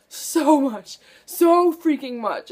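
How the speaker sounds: a fan venting about a hated ending, loud and emphatic; emphatic outburst. Real, not acted. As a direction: lean hard on each so, fed up.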